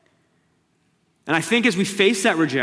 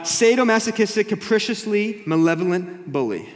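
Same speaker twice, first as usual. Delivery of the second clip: mocking recital; 6 semitones higher, 4 dB louder than usual. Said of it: "He says this".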